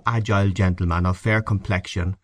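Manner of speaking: plain reading voice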